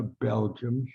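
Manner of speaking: "Belgian" said as "BEL-jum"; mispronounced Belgian. Retold or imitated. Boxer telling the crowd about the dog, "Belgian" mispronounced as "Belgium". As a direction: end "Belgian" on an m, as the boxer did. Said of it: "He always said Belgiums".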